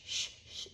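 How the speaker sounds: "Shh" as a long hushing hiss; sh sound. Shown as a demonstration. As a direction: hush like quieting a room, no voice. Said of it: "where do we hear the sh sound".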